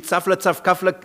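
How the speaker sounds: steady nonsense-syllable patter; mock babble in an even rhythm; incomprehensible foreign babble. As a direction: imitate how an unknown language sounds. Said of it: "Das wird für euch klingen wie".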